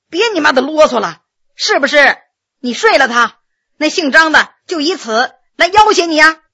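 brusque master cutting in; exasperated, pressing questioning; impatient interruption. Acted. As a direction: cut through the dithering and demand the answer. Master cuts off the stammering confession.

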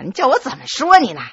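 ordinary delivery, nothing marked

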